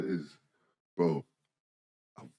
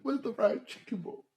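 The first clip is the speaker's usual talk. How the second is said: exasperated high; 12 semitones higher than usual. Real, not acted. Exasperated return to story.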